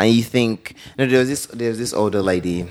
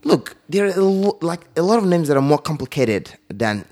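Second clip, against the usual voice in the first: firm telling off; 4 semitones higher than usual. Retold or imitated. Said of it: "And I said".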